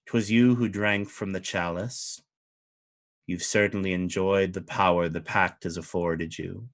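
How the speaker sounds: a lord calmly asking why; understated regal curiosity; fey duke. Acted. Duke questions Anduriel.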